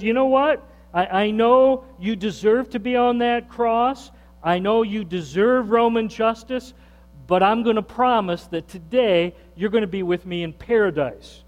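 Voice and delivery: lightly voiced Jesus reassuring the thief; voicing Jesus. Preacher voicing Jesus to the condemned thief, earnest.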